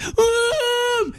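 put-on high, small kid's um; a child unsure what to say; high confused um; child's hesitant um. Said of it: "And the kid goes".

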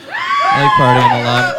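very high, slow drawn-out yell; party shout. Pretend. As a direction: whoop it like a drunk partier.

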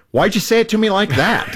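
high-pitched, wounded protest; mock-indignant spouse's comeback; upset retort. Spouse reacting in a marriage argument, upset and accusing. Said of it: "we're angry, we're upset".

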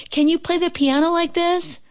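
high, showing-off call; boastful cry. Acted. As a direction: brag to your friend. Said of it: "cried Toad".

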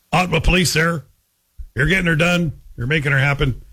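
lightly imitated Ottawa Valley local; rural Ottawa Valley accent. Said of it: "It's kind of a rural accent".

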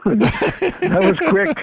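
laughing out the words, slowly; can't get it out for laughing. Real, not acted. Telling the host about the answered prayer, laughing.

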